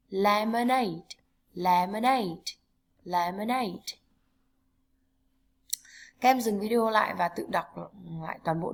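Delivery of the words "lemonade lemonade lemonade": careful model pronunciation of "Lemonade"; phát âm mẫu. Shown as a demonstration. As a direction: stretch the last syllable of "Lemonade". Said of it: "lưu ý cách phát âm". (đọc mẫu "Lemonade", kéo dài âm cuối)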